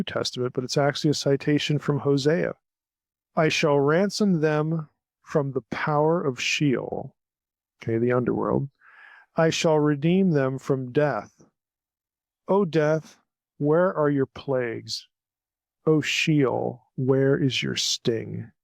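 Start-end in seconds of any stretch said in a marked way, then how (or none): 3.3-7.1 measured, slow scripture reading. Acted. Teacher reading God's words from Hosea aloud, measured scripture reading. 9.4-18.5 measured, slow scripture reading. Acted. Teacher reading God's words from Hosea aloud, measured scripture reading.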